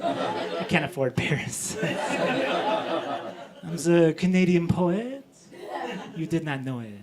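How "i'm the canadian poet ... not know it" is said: put-on French-Canadian accent. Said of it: "I'm learning French".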